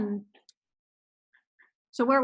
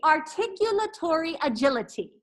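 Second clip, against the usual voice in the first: careful articulation; 3 semitones higher than usual. Shown as a demonstration. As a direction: enunciate every syllable clearly. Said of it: "So repeat after me".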